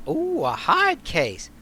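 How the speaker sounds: put-on bubbly bartender in a rough New York accent. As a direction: greet him like a Brooklyn barmaid. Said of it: "a bit of a New York-ish kind of accent".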